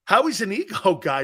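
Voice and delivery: "Howie's an ego guy" said with a laugh midway. Real, not acted.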